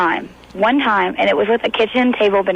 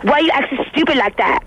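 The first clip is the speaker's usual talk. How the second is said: lightly voiced taunt at a dumb guy, pitched up; mocking a stupid guy; 4 semitones higher than usual. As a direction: tease him like he's being dumb. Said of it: "I make fun of him and I go".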